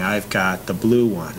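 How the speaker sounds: slow, relaxed and easy; slow easy speech. Shown as a demonstration. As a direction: model calm slow talk. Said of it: "communication pattern there by saying".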